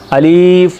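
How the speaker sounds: अलिफ with a wrong vowel; wrong alif. Shown as a demonstration. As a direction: demo a mistaken अलिफ. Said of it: "ये गलत है".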